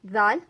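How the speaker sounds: loud clear letter name Daal; पढ़ाते हुए दाल. Shown as a demonstration. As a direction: call out the letter name दाल, spoken slowly. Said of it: "उसके बाद हमारे पास रह जाते हैं".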